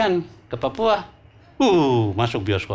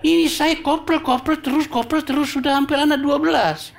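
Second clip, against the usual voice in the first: pleading soldier; 9 semitones higher than usual. Acted. Ambonese corporal complains to Bapak.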